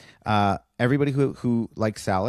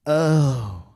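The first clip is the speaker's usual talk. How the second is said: stunned realization; 5 semitones higher, 6 dB louder than usual. Retold or imitated. Realizing Emily is AI.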